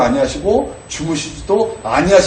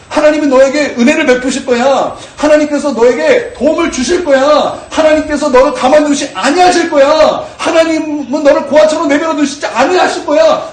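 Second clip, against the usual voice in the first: builds higher and louder to a full shout; rising preached declaration; 9 semitones higher, 5 dB louder than usual. Shown as a demonstration. Preacher crying out encouragement to his own soul, building to a shout. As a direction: cheer your own soul on, climbing to a shout. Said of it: "그렇게 자신에게 선포했다라는 거예요".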